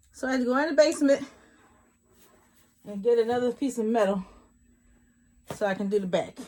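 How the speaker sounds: gasping between phrases after stairs; puffing, fast and breathless; out of breath. Real, not acted. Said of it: "Hey, I'm out of breath".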